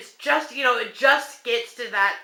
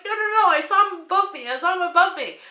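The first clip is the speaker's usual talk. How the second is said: high, loud and fast; frightened wife insisting to her husband; insistent panic; 9 semitones higher, 4 dB louder, faster than usual. Retold or imitated. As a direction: insist urgently that you saw him. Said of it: "I'm like".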